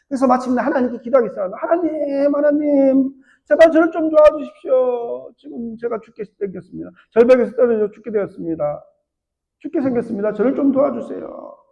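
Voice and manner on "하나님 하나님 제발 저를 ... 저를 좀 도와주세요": hanging man praying for rescue; crying out prayer. Retold or imitated. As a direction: beg God from the cliff edge. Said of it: "그렇게 소리치며 기도했더니".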